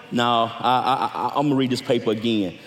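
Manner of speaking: a low, mumbled hint of a tired reader; mock inner voice. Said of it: "Then we say".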